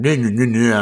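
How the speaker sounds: mimicked whiny objection; mock pushback. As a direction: brush it off in mock protest. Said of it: "gives me the pushback".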